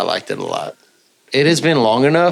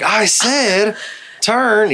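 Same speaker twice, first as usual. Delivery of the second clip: mock stern command; 10 semitones higher, much slower than usual. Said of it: "I'm like".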